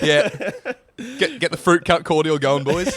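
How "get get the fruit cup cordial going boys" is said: laughing mock tradie. Continuing the tradie bit.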